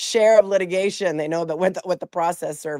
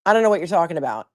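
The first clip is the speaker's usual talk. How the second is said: quick denial; faster than usual. Retold or imitated. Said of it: "My mom was like".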